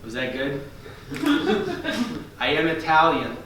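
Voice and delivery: soft, unsure follow-up; timid actor character. Acted. Same shy auditioner asking audience, quiet and unsure. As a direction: ask meekly for approval.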